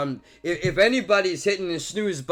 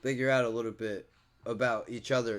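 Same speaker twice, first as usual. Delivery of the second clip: softer, lower earnest echo; soft sincere repeat; 4 semitones lower, 5 dB quieter than usual. Real, not acted. Vlogger repeats his hope to viewers, softly sincere. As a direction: let it sink in gently. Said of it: "repeats the phrase for emphasis".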